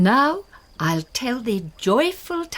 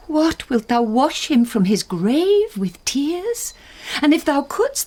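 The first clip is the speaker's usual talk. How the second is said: sharp, louder rebuke; scolding; 8 semitones higher, 5 dB louder than usual. Acted. Mother scolding Juliet for endless weeping. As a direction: scold her for the tears.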